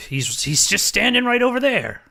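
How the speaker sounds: high-pitched, insistent character voice; Lucas protesting. Acted. Lucas insists to his friends that Corey is fine, protesting. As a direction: wave off the worry, pitched well up.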